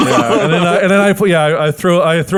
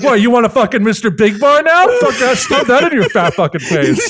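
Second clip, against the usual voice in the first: getting madder; 5 semitones higher than usual. Acted. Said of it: "getting madder and madder".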